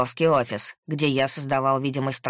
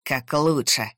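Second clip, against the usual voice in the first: through gritted teeth. A narrator's reading. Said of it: "процедил он".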